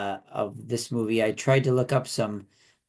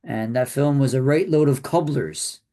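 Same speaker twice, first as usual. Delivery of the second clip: British accent attempt. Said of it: "my terrible British accent".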